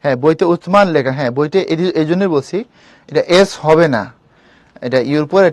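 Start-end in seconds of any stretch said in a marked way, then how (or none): 0.4-0.9 উসমান with Arabic th sound, utman; Arabic pronunciation. Shown as a demonstration. Teacher correcting the spelling, উসমান said the Arabic way. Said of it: "আরবি উচ্চারণটা এরকম".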